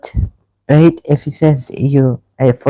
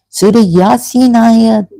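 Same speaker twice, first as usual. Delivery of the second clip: ordinary delivery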